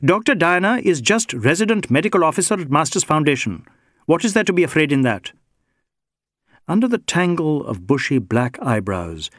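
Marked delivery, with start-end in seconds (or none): 0.0-5.3 lightly voiced inspector, higher and indignant; a touch of defensive irritation, pitched up; testy inspector. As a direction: brush off the very idea of fear.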